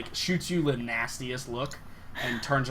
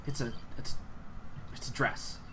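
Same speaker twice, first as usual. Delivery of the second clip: dismissive; 5 dB quieter than usual. Acted. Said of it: "a little bit dismissive".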